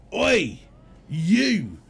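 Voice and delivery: mildly gruff shouted demand, slow on the last words; gruff woman. Retold or imitated. Old woman shouting at the fat man about her keys, lightly gruff. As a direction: bark it out like a rough old woman. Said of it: "with a very gruff voice".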